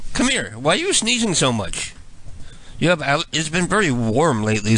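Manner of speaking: ordinary talk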